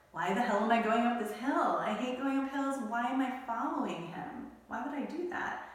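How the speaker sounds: exasperated rant. Retold or imitated. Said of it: "I said".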